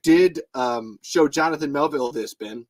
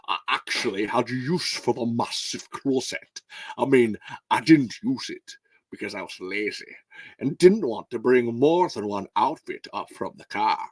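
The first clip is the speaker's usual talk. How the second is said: terrible Sean Connery. Pretend. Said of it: "That was a fucking terrible Sean Connery".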